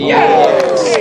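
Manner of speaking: sudden high joyful yell; excited shout. Real, not acted. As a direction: cheer as the putt drops. Birdie putt drops, commentator cheers.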